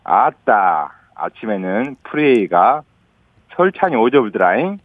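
slow Jeolla dialect, chopped into pieces; 천천히 전라도 사투리로. Shown as a demonstration. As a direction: Jeolla phrase 아침에는 프레이가 broken up and slowed. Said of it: "천천히 다시 한번 해드릴게요".

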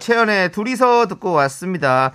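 radio host announcement. Acted. Host announcing a listener's story and prize, upbeat presenter style.

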